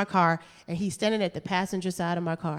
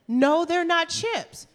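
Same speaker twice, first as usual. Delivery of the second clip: mimicking boyfriend; 9 semitones higher, much slower than usual. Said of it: "So he says".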